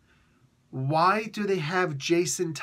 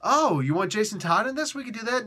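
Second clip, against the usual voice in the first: eager employee; 5 semitones higher than usual. Retold or imitated. Employee eager reply, higher.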